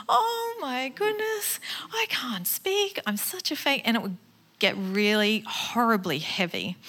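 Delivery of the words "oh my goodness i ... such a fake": panicked self-talk. Retold or imitated. Speaker reliving her shame after speaking, high panicked whisper.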